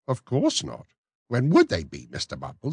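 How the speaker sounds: high, prim lady's voice; genteel matron. Acted. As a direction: play the coy matron. Matron replies.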